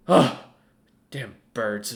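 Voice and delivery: grumbling curse at the birds; annoyed old wizard. Acted. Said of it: "As he goes".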